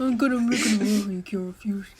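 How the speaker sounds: mumbled through an underbite; Godfather impression. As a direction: jaw jutted, half-laughing Brando. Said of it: "let me get my jowls".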